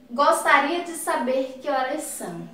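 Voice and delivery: mild polite tone; polite indirect question. Shown as a demonstration. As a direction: ask it gently as a favour. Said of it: "até a entonação da fala fica diferente".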